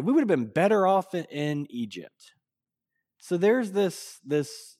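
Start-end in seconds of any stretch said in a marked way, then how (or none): 0.0-2.3 lightly imitated complaint, dragging at the end; mild grumbling. Israelites gripe to God about leaving Egypt, mildly grumbling. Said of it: "this whining and grumbling and complaining".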